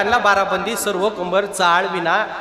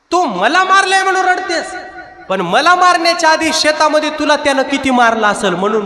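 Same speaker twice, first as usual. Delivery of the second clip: grieving lament; 7 semitones higher, 4 dB louder than usual. Acted. Buffalo's grief retold by Tukaram.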